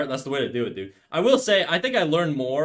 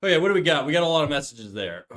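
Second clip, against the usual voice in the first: talking with a mouthful; chewing while reading chat; mouth full. Real, not acted. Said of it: "I'm gonna be with my mouth full".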